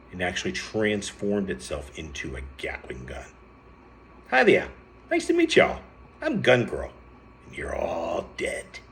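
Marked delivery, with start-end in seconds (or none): 4.3-8.8 put-on loud, high Brooklyn accent, easing down at the end; hammed-up Brooklyn accent, slowing on the threat. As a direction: announce yourself in a brash fake Brooklyn accent. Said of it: "she said in a very put-on Brooklyn accent".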